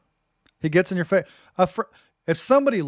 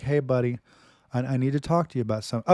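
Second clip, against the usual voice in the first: gentle approach; 4 semitones lower, faster than usual. Retold or imitated. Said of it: "you gotta be like".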